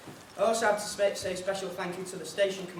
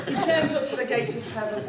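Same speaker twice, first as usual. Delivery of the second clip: words bubbling with real laughter; laughing while talking; 7 semitones higher, 5 dB louder than usual. Real, not acted. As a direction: talk through leftover laughter, higher and louder. Still laughing through the line.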